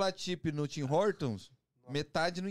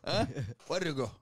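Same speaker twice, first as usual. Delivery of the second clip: mock Indian accent. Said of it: "chega o Uber".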